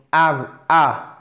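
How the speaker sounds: "av-" with a short English A. Shown as a demonstration. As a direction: isolate the short A of "av-". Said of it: "c'est un A court". (« av- » avec un A court anglais)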